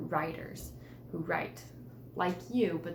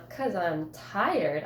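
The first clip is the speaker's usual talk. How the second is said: slow, louder sassy reply; 5 dB louder, much slower than usual. Shown as a demonstration. Teacher demonstrates a sassy comeback, slow. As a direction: drag it out with sass. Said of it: "Can you almost hear the way I said it".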